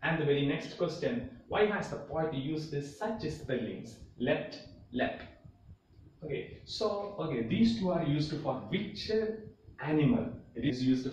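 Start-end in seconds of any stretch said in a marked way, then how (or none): 4.2-5.2 Leapt whispered twice as lep; whispered demo. Shown as a demonstration. Teacher shows the spelling's sound to students, whispering. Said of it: "its pronunciation is lep".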